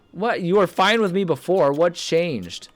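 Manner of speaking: high, indignant what; baffled and offended; surprised. Acted. Reacting to NPC turning hostile.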